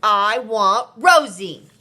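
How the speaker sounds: put-on slow, loud whining child; whiny little boy. A narrator's reading. Marvin refusing his dad's truck, slow and whiny. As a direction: drag it out, pleading.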